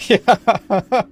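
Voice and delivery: bursting into loud, high laughter. Real, not acted. Gamer laughing hard after a physics glitch, loud laughter. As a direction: crack up at the game's physics. Physics launched him off blocks.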